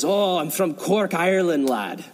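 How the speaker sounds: a hint of an Irish accent, slow; lightly imitating an Irish lad from Cork. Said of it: "he's got this Irish accent".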